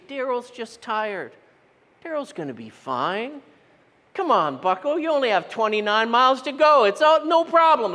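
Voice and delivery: upbeat third person pep talk. Shown as a demonstration. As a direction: cheer yourself on, coach style. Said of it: "in the third person you say".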